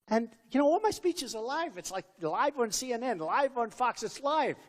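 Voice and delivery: ordinary delivery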